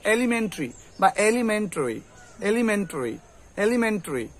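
এলিমেন্টারি as "elimentri", then "elimen-troi"; reduced ending on এলিমেন্টারি, "tri" or "tori"; no full "ta" in এলিমেন্টারি; correct variants. Shown as a demonstration. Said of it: "কি হবে উচ্চারণ".

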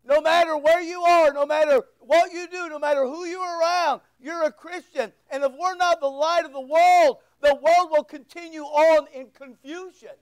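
pressing sermon, pushing each line; preaching. Acted. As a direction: drive the point home to the church. Preaching a rising appeal.

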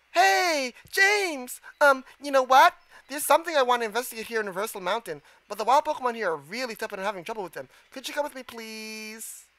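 lightly voiced game character asking a favor; character dialogue.

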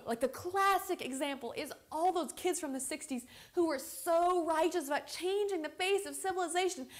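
animated, argumentative monologue in casual speech; Jessica. Acted. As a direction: build from offhand remarks into an emphatic rant, then subside. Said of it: "I will be playing the role of Jessica".

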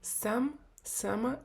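"сама" with "са" stressed, as in colloquial speech; stress on first syllable. Shown as a demonstration. Teacher models speech heard in Israel, "сама" stressed on the first syllable. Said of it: "по принципу розмовної мови".

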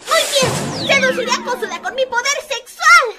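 fired-up proclamation. Acted. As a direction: proclaim your grand plan with full resolve. Proclaims her new mission. (proclamación exaltada y decidida)

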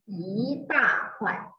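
slow "一大块", "一" rising; tone change demo. Shown as a demonstration. Teacher showing the changed tone, "一大块" slow and deliberate. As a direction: space out "一大块" slowly, lifting "一". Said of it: "you should change like this".

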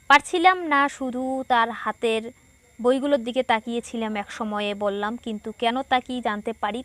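read without pauses. Shown as a demonstration. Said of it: "প্রায় হাঁপিয়ে গিয়েছিলাম".

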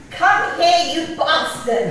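loud half-laughing call of come here; a fond imitation of a shouted telling-off; mock yell. Eulogist imitating Timmy yelling at her animals, laughing loud call.

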